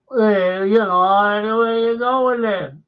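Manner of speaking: drawn-out, hammed-up Liverpool actor voice; mock TV-drama Liverpudlian. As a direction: send up a bad old TV Scouse performance. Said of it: "A Family at War?".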